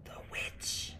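hushed, fearful whisper; near whisper. Acted. Old woman naming the witch to him, nearly whispering. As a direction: breathe it as if afraid to say it aloud. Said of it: "she nearly whispered".

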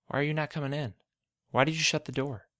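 a touch of fear, questions rising; mildly frightened boy; afraid. Acted. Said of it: "with fear in his voice".

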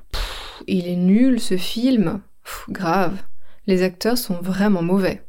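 contemptuous movie review; scornful complaint. Shown as a demonstration. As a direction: sneer at a bad film. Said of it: "Un deuxième exemple".

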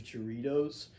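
Doritos said with a ch start, chuh-ree-dohz; odd pronunciation. Real, not acted. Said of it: "it's Doritos, by the way".

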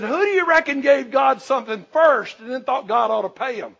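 loud, rising preacher's challenge; Paul's question thundered from the pulpit; shouted challenge. Acted. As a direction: fire the question at the crowd.

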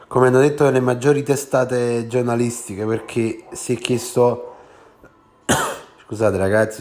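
speaking through a head cold; blocked nose, a bit congested; stuffy nose. Real, not acted. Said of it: "sono un po' raffreddato".

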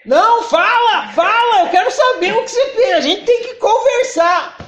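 loud, high-pitched badgering demand; insistent shouting. Imposing partner demands that the submissive talk, shouting insistently. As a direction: press for an answer, voice jumping way up.

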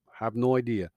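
whispered aside; whispering. Real, not acted. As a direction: drop to a whisper, puzzled. Shrugging aside to viewers.

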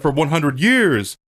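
lightly hammed-up speech impression; Morpheus. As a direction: declaim it with a swell on the last word. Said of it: "but he says".

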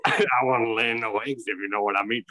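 put-on British innuendo; British accent. Joking as the hen-house character, mock British accent. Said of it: "doing a British accent".

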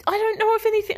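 high, flustered stammer; a touch of startled panic, pitched high; panicky stammer. Retold or imitated. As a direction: blurt it out in a mild panic. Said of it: "I was just like".

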